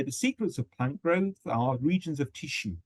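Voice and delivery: "The secrets of plant growth are regions of tissue" as one group, pause after "tissue"; group it all the way to tissue, then stop; phrase then pause. Shown as a demonstration. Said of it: "and pause there".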